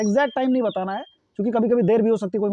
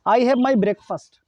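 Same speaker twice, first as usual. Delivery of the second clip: slow dictation; 3 semitones higher, much slower than usual. Shown as a demonstration. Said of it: "slow model sentence dictated".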